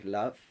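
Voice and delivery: "love" lightly opened towards "lahv"; a hint of accent on "love", vowel broadened to "ah"; foreign pronunciation. Shown as a demonstration. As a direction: imitate a learner saying "love" with an "ah" vowel. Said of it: "she'll say la".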